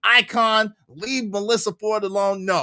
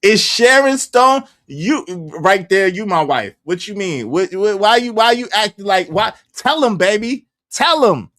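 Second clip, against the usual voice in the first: mock spouse; 6 dB louder than usual. Acting out a married couple.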